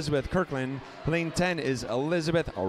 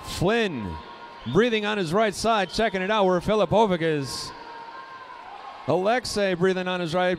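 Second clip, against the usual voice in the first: excited race call; 4 semitones higher than usual. Real, not acted. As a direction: call the finish with building excitement. Exciting close race finish call.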